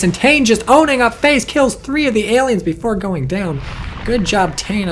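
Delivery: loud, high excited commentary; excited play-by-play. Real, not acted. Caster hyping Tane owning up phase, excited. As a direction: call the kills with a big surge of excitement. Cheering a player's kills.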